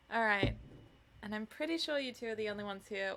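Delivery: plain reading voice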